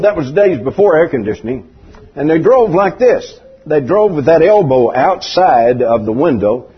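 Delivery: ordinary delivery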